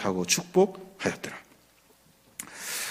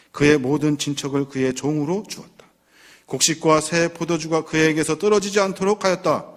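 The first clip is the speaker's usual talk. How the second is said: put-on heavy old father. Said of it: "정말로 무겁게 입을 엽니다".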